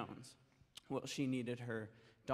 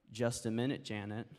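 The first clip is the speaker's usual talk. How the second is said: deliberately; 2 semitones lower than usual. Acted. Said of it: "very deliberately".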